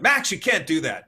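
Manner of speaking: mild mock yell at a child; retold yell. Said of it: "I yelled at him".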